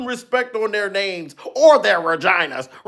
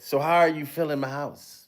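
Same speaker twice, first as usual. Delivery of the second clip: low, soft mock host voice; calmly, after the outburst, hush it; a hint of a calmed-down party host; 7 semitones lower, 8 dB quieter than usual. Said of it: "Then he calmed down and said".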